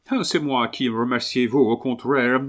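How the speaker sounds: Englishman's broken French courtesy; English accent. Acted. Englishman thanking the seller in return, English accent. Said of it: "répondit l'Anglais".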